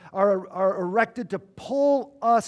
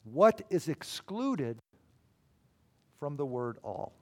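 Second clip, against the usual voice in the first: slow question; 5 semitones lower, 7 dB quieter than usual. Shown as a demonstration. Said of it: "let me just ask a simple question".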